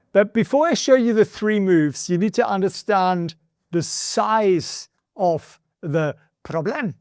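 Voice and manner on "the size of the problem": slow, accidental mock Spanish accent; hideous Spanish accent. Real, not acted. Host introducing Washington's money trouble, in a clumsy Spanish accent. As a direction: slip into a bad Spanish accent, drawn out. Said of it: "I'm doing that hideous Spanish accent".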